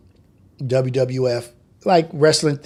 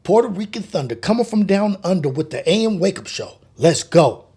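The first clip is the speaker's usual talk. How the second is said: slightly higher radio intro; announcer tagline; 3 semitones higher than usual. Shown as a demonstration. Streamer trying the intro again as a DJ. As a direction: sell the show open like a DJ. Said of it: "That's it right there".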